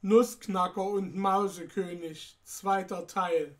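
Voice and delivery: put-on measured read-aloud storytelling for children; story narration. A narrator's reading. The speaker reads Nussknacker und Mausekönig to children, story narration. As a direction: narrate an old Christmas tale to listeners.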